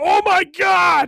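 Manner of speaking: very high, loud yelp of agony. Imagining a cat jumping on a sunburned back: mock pained cry. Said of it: "You're gonna be like".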